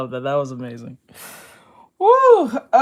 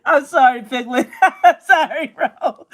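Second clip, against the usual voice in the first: laughing apology. Real, not acted. Apologizing to Piglet while laughing.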